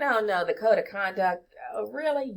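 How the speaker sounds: mock groan of a student dreading the rules; dismayed student. Imitating a student to the class, mock dismay. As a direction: play a reluctant student, lightly. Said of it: "You might be thinking".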